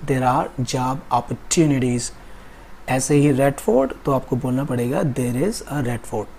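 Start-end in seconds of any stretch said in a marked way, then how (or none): 1.1-2.1 American "opportunities" with a T sound; American pronunciation. Shown as a demonstration. Teacher showing students the American choice, "opportunities" with a T. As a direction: say "opportunities" with "tu", not "chu". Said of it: "मैं तो American follow करता हूँ".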